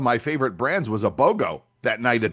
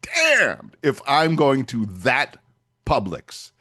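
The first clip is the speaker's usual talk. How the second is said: indignant; much slower than usual. Retold or imitated. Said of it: "And I'm like".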